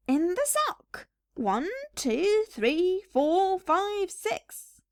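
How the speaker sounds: put-on stubborn old man counting; McGregor replying. McGregor stubbornly counting again for his wife, fading to a whisper. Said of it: "replied Mister McGregor".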